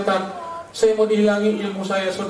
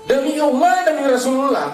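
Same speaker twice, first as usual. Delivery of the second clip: raised, ringing oath; higher-pitched declamation; solemn proclamation; 5 semitones higher, 3 dB louder than usual. Acted. Preacher proclaims a quoted oath.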